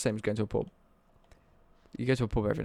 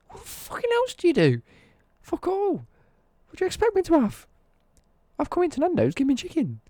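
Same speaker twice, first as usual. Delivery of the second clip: high furious shouting rant, much louder; raging at Nando's; 6 dB louder than usual. Real, not acted. Ranting to viewers about Nando's staff, furious high shout. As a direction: yell it like you've lost all patience. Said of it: "Oh, Nando's makes me rage".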